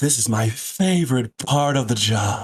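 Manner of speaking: menacing, threatening whisper. Playing a killer leaning over a stabbed victim: menacing whisper. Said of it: "and I whisper".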